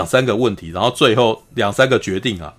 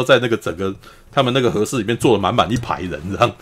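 normal talking voice

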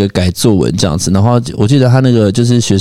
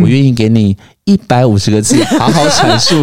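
laughing. Retold or imitated. Teacher's note read laughing.

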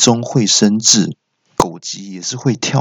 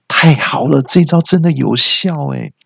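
higher, gleeful self-congratulation; delighted inner thought; 5 semitones higher than usual. Acted. Man privately celebrating his trick, gleeful. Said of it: "我心里就想说".

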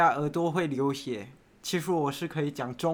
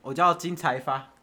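put-on Mandarin accent. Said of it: "再国语一点".

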